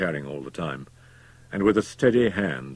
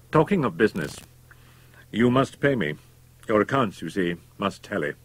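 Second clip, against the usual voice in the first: menacing doctor voice; 4 semitones higher, 5 dB louder than usual. Acted. Murderer demands payment.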